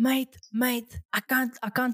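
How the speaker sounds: slow, put-on Greek accent with words drawn out. Retelling a guy in the cinema answering a phone call, put-on Greek accent. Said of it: "I'm saying it in an accent".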